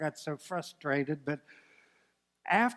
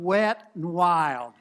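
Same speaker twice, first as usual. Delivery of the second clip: slow, louder words broken by laughter; laughing; 5 dB louder, much slower than usual. Real, not acted. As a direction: laugh through it at the gross memory. Gross memory, laughing.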